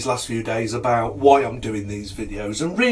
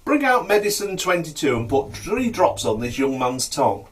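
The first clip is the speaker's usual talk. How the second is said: higher-pitched shouted instruction; calling out; 4 semitones higher than usual. Acted. Healer orders drops from his assistant, calling out. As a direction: call the order to the back room. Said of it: "he shouts to the back room".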